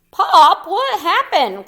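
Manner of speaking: put-on high, loud child's cry of "Pop"; Junior cries out. Junior cries out to his dad, high and loud. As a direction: call out to your dad, alarmed. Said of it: "cried Junior".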